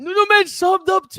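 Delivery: high, loud shout of disbelief; excited shout. Real, not acted. Viewer reacts to star subscribing, excited shout. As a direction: shout it out, voice shooting up. Stunned at star joining live chat.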